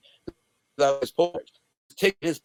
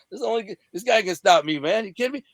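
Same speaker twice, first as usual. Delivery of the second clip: higher-pitched cocky ribbing; retold ball-busting banter; wise guy kid; 5 semitones higher than usual. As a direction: tease him like a mouthy kid. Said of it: "being a wise guy kid".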